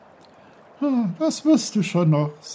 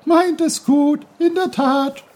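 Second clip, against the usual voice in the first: high, louder indignant brook; high, louder annoyed babbling; angry bubbling; 10 semitones higher, 5 dB louder than usual. Acted. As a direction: splutter it out, offended. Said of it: "sprudelte der Bach ärgerlich".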